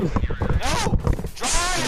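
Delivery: loud urgent yell; shouting. Real, not acted. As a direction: bark the order loudly. Urging partner in game chase.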